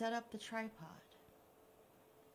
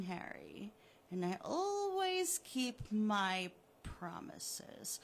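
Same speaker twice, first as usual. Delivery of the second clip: gloating villain; 4 dB louder, slower than usual. Acted. Killer taunting the buried Harry, smug and mocking. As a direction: taunt him like a cat with a mouse.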